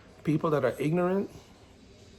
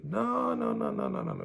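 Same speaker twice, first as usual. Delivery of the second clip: emphatic no; 10 semitones higher than usual. Real, not acted. Rejecting complacency.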